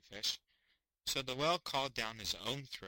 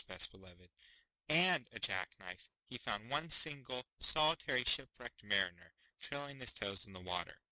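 ordinary delivery, nothing marked

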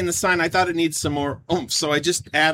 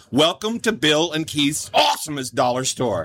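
monster truck announcer. Shown as a demonstration. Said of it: "you have to say it like that".

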